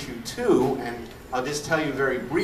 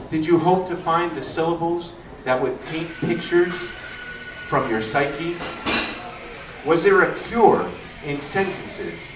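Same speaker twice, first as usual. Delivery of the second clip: raised, emphatic poem reading with measured pauses; poetry recitation; 2 semitones higher than usual. Acted. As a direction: declaim each phrase, lifting it and letting it fall.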